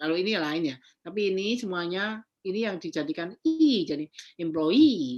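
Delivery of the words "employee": employee with weight on final -ee syllable. Explaining words ending in double e: stress on last syllable of employee. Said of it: "naiknya nunggu sampai akhir gitu ya, nunggu sampai akhir kata".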